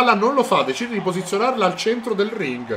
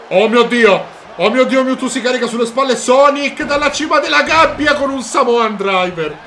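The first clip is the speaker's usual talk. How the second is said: excited commentary; 4 semitones higher, 4 dB louder than usual. Real, not acted. Big move from top of cage.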